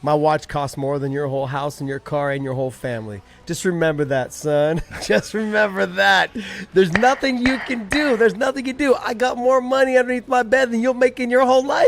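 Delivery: smug rich fighter taunting; Conor McGregor Irish accent. Pretend. Conor mocking Jake's money, mild Irish accent. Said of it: "best Irish accent you got".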